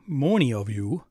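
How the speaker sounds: loud Wisconsin accent with a long, rounded "many"; exaggerated Wisconsin vowel on "many". Shown as a demonstration. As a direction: say "many" like "moany", Wisconsin style. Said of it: "that's my Wisconsin accent".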